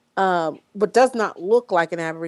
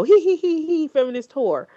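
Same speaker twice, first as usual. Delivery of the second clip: mock giggling; 9 semitones higher than usual. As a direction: sneer it out like a snickering frat boy. Mocking coders' laughter quoted.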